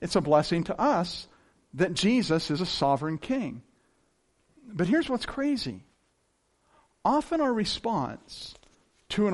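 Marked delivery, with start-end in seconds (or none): 0.0-3.6 gratefully exultant praise; joyful praise. Retold or imitated. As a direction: sing out thanks like a hymn. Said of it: "the lyrics to a song where he says".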